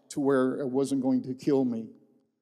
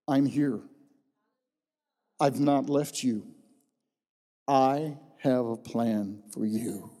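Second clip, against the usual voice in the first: lower, gentle and unhurried, slowing on the promise; soft passionate voice; 4 semitones lower, slower than usual. Retold or imitated. A divine voice comforts the dying preacher, low and gentle. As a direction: speak softly like a comforting presence. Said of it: "it was soft, it was passionate".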